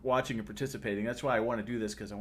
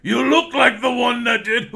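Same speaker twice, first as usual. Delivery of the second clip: higher and louder, an accusing shout; dwarf shouting; 9 semitones higher, 8 dB louder than usual. Acted. Angry dwarf shouting down the goblin before the kill. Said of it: "He's like".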